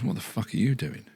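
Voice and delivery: a hint of an angry boss; irate foreman. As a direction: play the foreman catching him out. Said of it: "the foreman comes along and goes".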